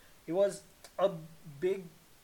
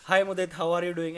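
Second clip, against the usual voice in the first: put-on American accent; 6 dB louder than usual. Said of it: "and the guy goes".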